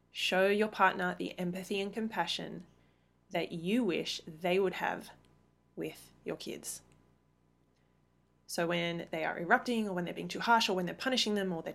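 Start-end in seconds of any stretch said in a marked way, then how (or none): 0.1-6.8 slow, earnest. Shown as a demonstration. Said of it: "How powerful is that?".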